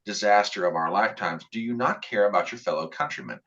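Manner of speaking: a measured reporter's question, firm but calm. Shown as a demonstration. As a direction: ask it steady and firm without raising the voice. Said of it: "I said that in a completely calm voice".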